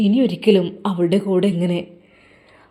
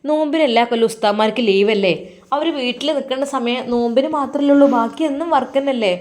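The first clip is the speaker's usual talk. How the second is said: pleading mother; 5 semitones higher than usual. Acted.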